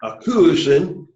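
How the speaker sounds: slow, careful Greek model reading. Shown as a demonstration. Teacher modeling Greek for students to repeat, slow and careful. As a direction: lay out each Greek syllable slowly for the class. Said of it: "Let's say the sentence".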